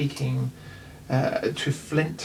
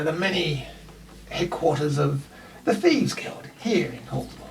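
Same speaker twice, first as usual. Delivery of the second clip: Dresden welcoming. Acted. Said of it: "elf Dresden welcomes party".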